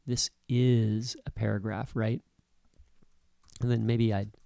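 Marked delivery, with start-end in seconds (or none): 0.1-1.9 slow down and lean hard on "is"; stress on is. Shown as a demonstration. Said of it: "put the emphasis on".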